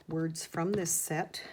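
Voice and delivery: slow, words pushed out while holding breath; talking while holding your breath. Real, not acted. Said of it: "Can you tell I'm holding my breath".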